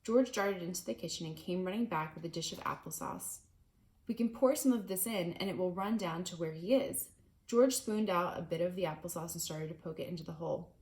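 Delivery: reading a chapter book aloud to a class; steady, clear read-aloud narration; story narration. A narrator's reading. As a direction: tell it like a storybook to listening kids. Reads the book to children.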